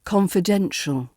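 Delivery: Confidential with main stress on DEN. Shown as a demonstration. Teacher models the word, Confidential stressed on DEN. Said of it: "emphasis here focuses on the den".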